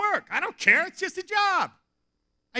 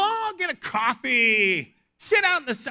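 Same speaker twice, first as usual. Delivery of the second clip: mock-eager, pitched up; overeager helper; 3 semitones higher, 4 dB louder than usual. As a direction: gush the idea, stretching it out. Acts his own overeager tourist advice.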